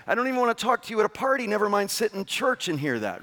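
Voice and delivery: high, fast scornful rant; mock disgust. Listener rejecting an arrogant preacher in fast scornful rant. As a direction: rattle it off, fed up and dismissive. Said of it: "You'd say".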